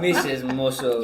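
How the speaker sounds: drawn-out attempt at a cartoonish British accent; slow mock Stoke accent. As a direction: lightly mimic her cartoonish accent, slowly. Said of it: "You gotta start with the accent".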